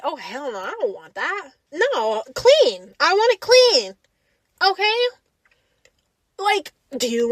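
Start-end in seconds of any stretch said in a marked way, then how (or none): 0.0-1.5 flat refusal. Retold or imitated. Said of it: "and I'm like".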